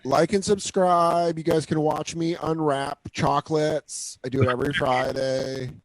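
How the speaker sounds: slow, drawn-out influencer plug; put-on vlogger sign-off, words stretched; mock YouTuber. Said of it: "always wanted to do this on the YouTube video".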